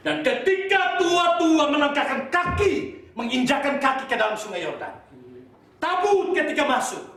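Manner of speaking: high, climactic sermon narration; forceful preaching. Real, not acted. Preacher narrating the elders stepping into the Jordan, forceful. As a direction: proclaim the miracle as it builds.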